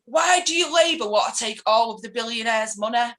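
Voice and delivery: lightly imitated indignant demand; mild mock confrontation; retold challenge. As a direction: fire it as an accusing question. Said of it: "her husband comes marching down the hallway".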